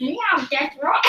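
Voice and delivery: put-on Meowth with an English accent; cat voice in an English accent. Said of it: "Why is it an English accent?".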